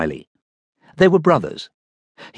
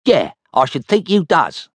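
Dud Check's voice; 7 semitones higher than usual. Acted.

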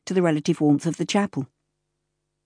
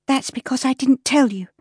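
sharply; 8 semitones higher than usual. Acted. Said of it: "Jane said sharply".

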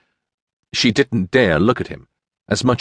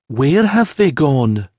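gentle lady; 6 semitones higher, slower than usual. Acted. Lady gently questions grieving woman.

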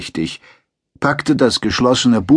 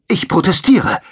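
much higher, louder angry protest; 10 semitones higher, 5 dB louder than usual. A narrator's reading. Takson objects to the sergeant, angry. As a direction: protest hotly. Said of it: "sagte Takson zornig".

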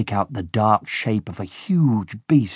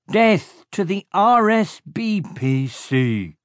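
much higher, slow henchman voices getting R S B P C wrong; henchmen's muddled oath; 9 semitones higher, slower than usual. A narrator's reading. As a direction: parrot the oath clumsily, letters jumbled. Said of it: "they said".

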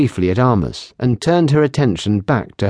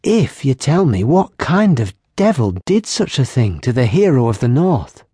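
put-on higher, lively young barmaid voice; teasing barmaid; 4 semitones higher than usual. Barmaid teasing the lieutenant about her healing, higher and playful. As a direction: tease them playfully, brightly pitched. Kylie asks.

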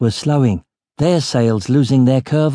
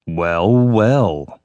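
low, drawn-out purr; near purr; 4 semitones lower than usual. A narrator's reading. Yuri discovers the captain's secret sack, purring. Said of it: "His voice was nearly a purr".

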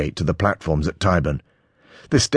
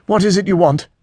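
cold; 14 semitones higher, 6 dB louder than usual. A narrator's reading. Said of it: "he asks coldly".

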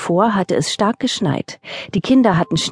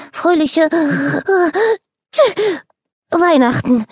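calling out; 11 semitones higher than usual. Acted. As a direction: call it out as you tumble in. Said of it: "rief er".

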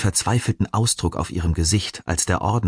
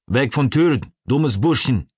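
high-pitched guard snapping in broken German; angry hissing; 7 semitones higher than usual. A narrator's reading. Guard to the prisoner at the bars, hissing angrily. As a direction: hiss an order in a high, angry voice. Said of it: "fauchte der Kerl".

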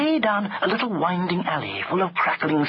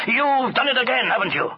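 loud, high accusing outburst; roaring accusation; angry roar; 8 semitones higher, 4 dB louder than usual. A narrator's reading. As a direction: round on the culprit, voice raised. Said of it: "he roared".

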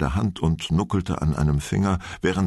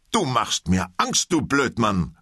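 calling out fairly loud; 5 semitones higher than usual. Acted. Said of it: "rief Lehrer ziemlich laut".

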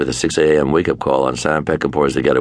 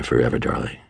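whispered; 4 semitones lower, 5 dB quieter than usual. Retold or imitated. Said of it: "I whispered back to her".

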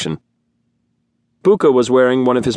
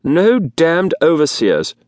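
slow, grudging growl; 7 semitones higher, slower than usual. A narrator's reading. Gavarnian at the dinner table, growling resentment. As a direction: growl the words out slowly. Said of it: "a Gavarnian growled".

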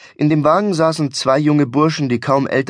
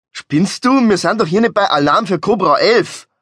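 higher, agitated objection; incredulous protest; 6 semitones higher, 3 dB louder than usual. Acted. Driver objects to his friend's reckless stunt, agitated disbelief. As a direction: protest as if he's gone mad.

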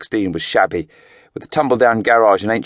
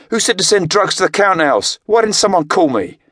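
much higher, louder furious questioning; furious demand; 12 semitones higher, 4 dB louder than usual. A narrator's reading. Craig raging at the men over the drugs, furious. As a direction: rage at the men who broke the rule.

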